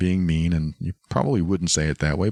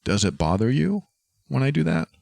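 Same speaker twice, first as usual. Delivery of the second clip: innocent question; 5 semitones higher than usual. Shown as a demonstration. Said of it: "it's an innocent question".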